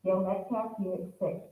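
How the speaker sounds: muffled behind a face mask; through a mask. Real, not acted. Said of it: "Can you hear me okay with my mask on?".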